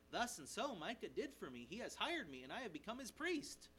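mildly pleased with himself; a touch of self-congratulation; self-satisfied. Acted. Levite telling the spies about his new post, mildly self-satisfied. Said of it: "He's quite pleased with himself".

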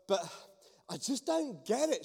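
acting out someone loudly exasperated; loud outburst. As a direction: blurt it out loudly in frustration. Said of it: "quite loudly, she's like".

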